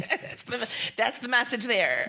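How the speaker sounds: chuckling through the words; laughing. Real, not acted. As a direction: laugh while making the point. Laughing at the finger joke.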